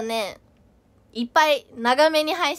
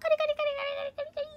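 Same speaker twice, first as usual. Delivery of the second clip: hamster nibbling noise; 11 semitones higher, 6 dB quieter, faster than usual. Acted.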